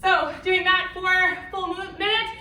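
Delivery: winded, talking between breaths; out of breath after the set. Real, not acted. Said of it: "See, I'm still out of breath".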